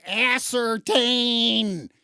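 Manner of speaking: "Ascertain" very slow, its first syllable "ass" punched; loud, drawn-out "ASS-certain"; stress on ASS. Shown as a demonstration. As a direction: stretch "Ascertain" right out, leaning on "ass". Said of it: "emphasis on the word ass".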